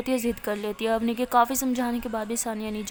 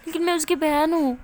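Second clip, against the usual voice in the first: insistent cry; 5 semitones higher, 4 dB louder than usual. Acted. Sister insisting.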